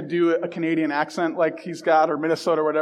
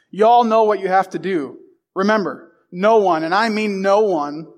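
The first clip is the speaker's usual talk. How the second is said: steady, building locker-room speech; rousing coach pep talk. Acted. Coach to his players before the big game, rousing pep talk.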